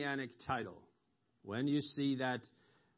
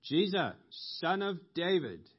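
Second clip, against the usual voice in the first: raised, higher plea, stretched at the end; crying out; 3 semitones higher, 4 dB louder than usual. Retold or imitated. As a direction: call out to be heard, drawing out the plea. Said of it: "he began to cry out".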